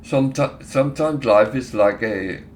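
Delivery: lightly imitated Indian accent; a hint of an Indian accent. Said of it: "I'm trying to give a, an Indian accent now".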